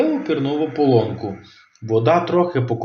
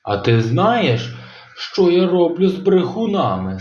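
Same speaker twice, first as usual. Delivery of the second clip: menacing monster; 4 semitones higher than usual. Acted. Monster threatens.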